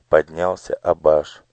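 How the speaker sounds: ordinary delivery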